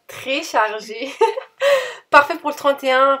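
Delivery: giggling through a correction, then a high burst of laughter; real laughter breaking into the line; laughing at herself. Real, not acted. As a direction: laugh it off after the slip. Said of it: "je suis morte de rire".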